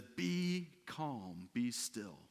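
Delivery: soft, slow hush to a storm; gentle acted command; calming command. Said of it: "he says to the wind and the waves".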